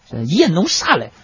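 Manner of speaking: a burst of Henan dialect. Retold or imitated. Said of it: "你能不能用这个河南话".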